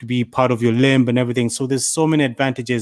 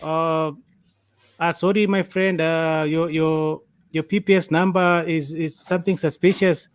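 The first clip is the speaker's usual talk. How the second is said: lightly put-on Indian accent, pitched higher; 4 semitones higher than usual. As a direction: imitate the Indian scam caller, higher. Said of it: "you don't need to do the ac-, the Indian accent".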